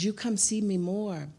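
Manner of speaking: put-on mild Asian accent, pleading gently; imitating Asian accent. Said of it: "She's Asian".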